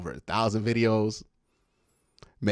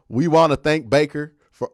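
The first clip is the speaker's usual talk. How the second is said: mock team-owner voice, a touch louder; Jimmy Haslam voice; 6 dB louder than usual. Host mocking the owner's farewell statement, in a mock owner voice. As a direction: read it like the stiff owner's statement. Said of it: "let me not do the Jimmy Haslam voice".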